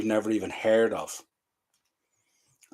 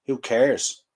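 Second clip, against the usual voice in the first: indignant repeat. Real, not acted. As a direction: fire the words back at the manager. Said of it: "That man on the screen cares".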